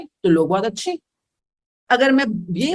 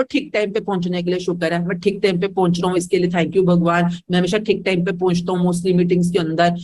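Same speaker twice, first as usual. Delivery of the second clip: lower, thankful affirmation; grateful affirmation; 5 semitones lower than usual. Shown as a demonstration. Teacher models a thankful affirmation, lower and calm. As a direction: say it low, as a thank-you. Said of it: "आप कह रहे हो".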